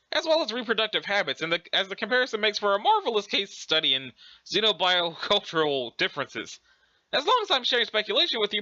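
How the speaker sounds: prim, effusive British scholar; lilting mock-British lecture; Urania Umbra. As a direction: ramble eagerly in a put-on British voice. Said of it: "pretending to be British".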